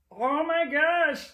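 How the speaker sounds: slow, loud delighted cry; delighted squeal. Real, not acted. Spotting her cat and gushing loudly. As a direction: gush over the cat.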